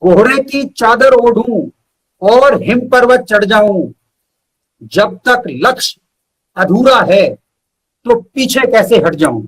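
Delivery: measured verse with pauses between phrases; poem recital. Acted. Poet reciting his own verse to the host, measured poetry recital. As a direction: recite each line slowly and weigh it.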